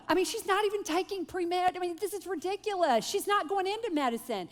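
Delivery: mother anxiously pleading with husband to let daughter quit; worked-up mom. Retold or imitated. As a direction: rattle off her daughter's excuses in a rush. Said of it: "I start repeating everything she said".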